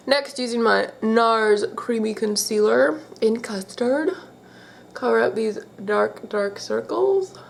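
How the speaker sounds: blocked nose from allergies; congested, stuffy-sounding voice. Real, not acted. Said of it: "Sorry if I sound a bit stuffy".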